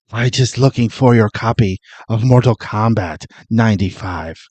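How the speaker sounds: lightly put-on accented intruder; creepy intruder Raiden. Caught in the host's home, lightly mimicked creepy visitor. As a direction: play an odd visitor explaining himself. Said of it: "Or a, a, a, a room in my home".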